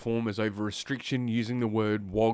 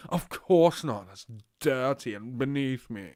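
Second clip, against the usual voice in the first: haughty, drawn-out snob; pompous voice. Acted. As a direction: look down your nose at it. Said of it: "I was doing that fucking pompous voice".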